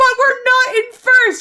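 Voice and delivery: very loud, very high, drawn-out shriek. Speaker reenacts a hockey argument with the other side, retelling a scream. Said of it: "screaming at each other at the top of my lungs".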